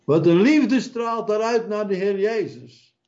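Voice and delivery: fervent exclamation. Acted. Preacher exults.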